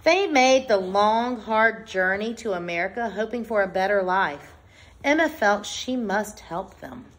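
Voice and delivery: measured, clearly phrased picture-book read-aloud; reading to children. Acted. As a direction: read it out to a class, pausing between phrases. Reads picture book to class.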